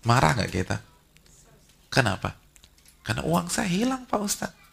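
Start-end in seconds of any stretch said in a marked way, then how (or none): 3.0-4.7 high, plaintive voice of a woman who lost money; mother complaining to the ustadz about lost money. Retold or imitated. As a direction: whine it to the preacher. Voicing a congregant answering the ustadz.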